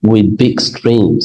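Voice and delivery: slow reading. Shown as a demonstration. Teacher reads English example aloud.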